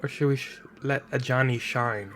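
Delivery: stuffy, nasal allergy voice; nasally. Real, not acted. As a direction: talk through a blocked nose. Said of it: "excuse me if I sound, like, a little nasally".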